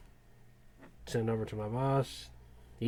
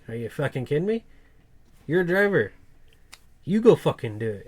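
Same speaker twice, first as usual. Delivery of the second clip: loud, exasperated boss shouting at a driver; retold angry yell; 3 semitones higher, 7 dB louder than usual. Boss yelling at a new driver who shirked work, furious. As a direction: bark it like a boss who has had enough.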